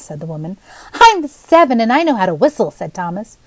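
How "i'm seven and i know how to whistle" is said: put-on high, bright child's voice announcing himself; eager little boy. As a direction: pitch up as a proud seven-year-old. Narrator voices young boy.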